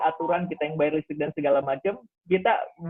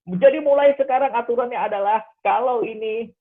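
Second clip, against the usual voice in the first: higher, louder laying down the law; retold angry mother; mock angry rule-setting; 5 semitones higher, 6 dB louder than usual. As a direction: imitate a mom angrily setting a rule. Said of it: "Bundanya marah dan langsung bikin aturan".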